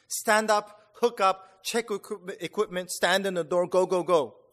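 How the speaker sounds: loud drill-sergeant commands, each one snapped out; barked orders. Retold or imitated. Jump master to trainees at the door, barked loud orders. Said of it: "hear the jump master bark out the orders".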